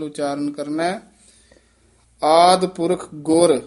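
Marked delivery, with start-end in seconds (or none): 2.2-3.6 ਆਦਿ ਪੁਰਖ ਗੁਰ as one unit, then rest; pause after ਗੁਰ. Shown as a demonstration. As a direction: stop on ਗੁਰ. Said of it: "ਇੱਥੇ ਵਿਸਰਾਮ ਲਾਉਣਾ ਹੈ".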